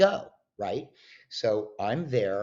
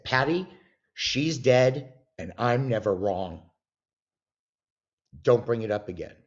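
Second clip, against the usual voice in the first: retold argument, laying down the law; retold firm insistence; 2 semitones higher, 5 dB louder than usual. Retold argument, insisting she's dead.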